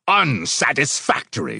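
explode, throwing the word back; exploding. A narrator's reading. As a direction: leader furious at the critic. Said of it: "Brother Jack exploded".

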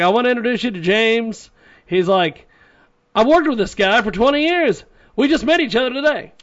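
put-on high eager Boston accent; light imitation of a Boston accent. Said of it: "And he had a Boston accent".

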